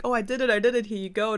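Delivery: high-pitched, eager announcement; excited Cinderella. Acted. Cinderella running back to her stepmom with the finished task, excited. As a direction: pitch it well up, proudly reporting success.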